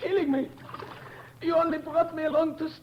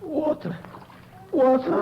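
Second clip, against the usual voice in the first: parched, pleading call; desperate cry; 2 semitones lower, 4 dB louder than usual. Acted. Covey begging his shipmates for water, desperate cry. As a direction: beg like a dying man. Dying man cries for water.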